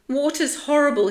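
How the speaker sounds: high, loud, fast outburst; sudden frightened protest, pitched high; blurted out. A narrator's reading. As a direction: blurt it in a panic. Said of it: "he blurted".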